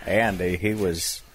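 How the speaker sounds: Morgan Freeman impression. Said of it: "Say something about Andy Dufresne".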